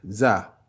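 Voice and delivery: "Za" with a simple French Z; "Za", no subtlety, just Z; plain Z sound. Shown as a demonstration. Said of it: "c'est Za".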